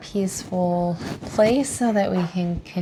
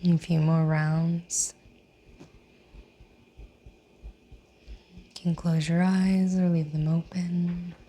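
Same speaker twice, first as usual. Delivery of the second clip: guided breathing. Real, not acted. Yoga teacher leading seated breathing, guided breathing. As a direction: guide them through breaths, drawing out the last words.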